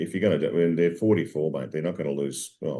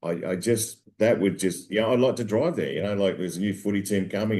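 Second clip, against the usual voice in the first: excited Dave; 2 semitones higher than usual. Retold or imitated. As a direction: gush it out like a kid with a wish. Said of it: "Dave goes".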